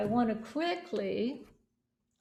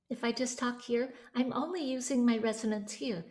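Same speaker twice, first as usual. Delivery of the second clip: put-on a lightly thin baby voice, quieter; 3 dB quieter than usual. Shown as a demonstration. Coach keeps showing the thin voice cut off from the body. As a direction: keep it small and in the face.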